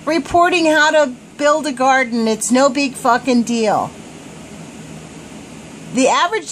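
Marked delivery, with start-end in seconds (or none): 0.0-3.9 sarcastically casual report writer; imitating blasé officials; mock nonchalance. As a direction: shrug it off as no big deal. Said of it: "they just write this shit as if".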